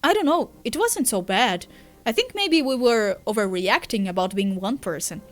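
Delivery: lightly voiced, swinging, incredulous banter; bickering characters. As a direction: argue it out, then play it down. Voices two characters in dialogue.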